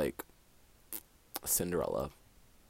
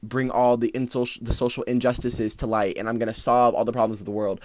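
white savior parody; 3 semitones higher, 5 dB louder than usual. Retold or imitated. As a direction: ham up a self-righteous crusader. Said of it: "Mister White Savior".

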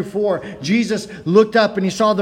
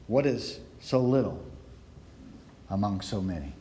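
doubtful question; 9 semitones lower, 9 dB quieter than usual. Retold or imitated. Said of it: "Andrew even poses the question".

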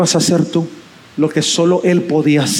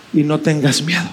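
soft reassurance; 4 semitones lower than usual. Acted. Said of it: "Ahora escucha lo que dice".

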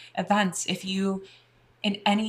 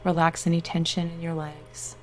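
guided meditation. Acted. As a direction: soothe them into relaxation.

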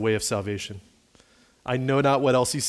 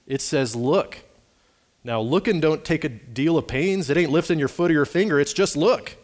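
lightly voiced country preacher, lively and raised; lay preacher; 4 semitones higher, 3 dB louder than usual. Lay preacher explains a simple text to his congregation, lively preaching. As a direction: play a simple Methodist preacher urging the congregation. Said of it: "The preacher began thus".

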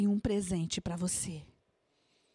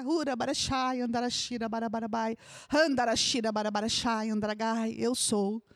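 prophetic tongues. Acted. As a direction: speak as God to the listener, in tongues.

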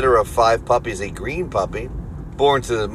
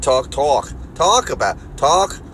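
Philly accent; 2 semitones higher, slower than usual. Shown as a demonstration. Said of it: "that weird Philly accent".

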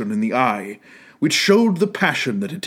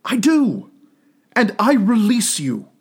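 put-on young girl, sorrowful; 4 semitones higher than usual. Girl voiced in the story.

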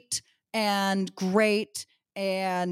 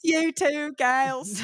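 higher, drawn-out hammed-up Australian; bad Australian accent; 6 semitones higher, much slower than usual. Imitating Australian guys hitting on two women, bad Australian accent. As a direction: ham up a slow Australian chat-up line. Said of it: "I cannot do an Australian accent".

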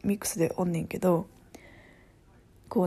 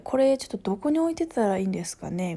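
polite question with Kansai intonation; strong Kansai accent. Retold or imitated. Coworker asking where to put something, in Kansai accent. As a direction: imitate a Kansai speaker's office Japanese. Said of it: "関西弁すごい".

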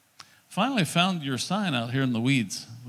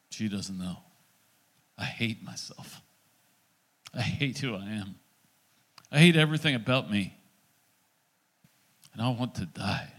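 hushed, dropping nearly to a whisper at moments; despairing confession; 4 semitones lower than usual. Retold or imitated. Acts out man's despairing confession.

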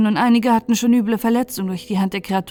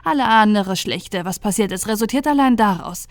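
eindringliche Ransha-Stimme. Acted.

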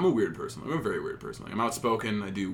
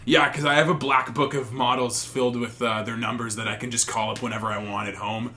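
sarcastic; 4 dB louder than usual. Retold or imitated. Sarcastic retold reply.

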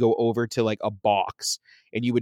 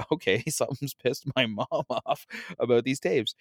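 laughing thought; 4 dB quieter than usual. Retold or imitated. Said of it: "And I was like".

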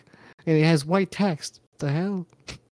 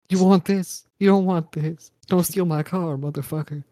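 mock tough-guy threat; 3 semitones higher than usual. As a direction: bark it like a cocky gunman. Threatening with imaginary gun.

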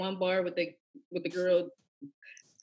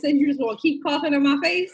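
laughing quote; 4 semitones higher, 4 dB louder than usual. Retold or imitated. Retelling her complaint, laughing.

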